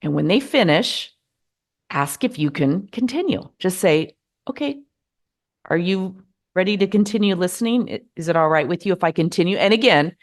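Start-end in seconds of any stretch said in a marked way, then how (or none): 4.5-9.6 a hint of smug impatience, quick at the end; mildly preachy, almost self-righteous; slipping into self-righteous. Shown as a demonstration. To someone who interrupted, a touch self-righteous. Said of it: "I almost went into that".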